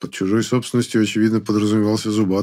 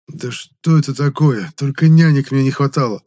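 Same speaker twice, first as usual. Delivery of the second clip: higher, louder angry protest; exasperated outburst; 5 semitones higher, 5 dB louder than usual. Acted. Hero fed up with his ghost nanny, angry outburst. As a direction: blow up at being babysat.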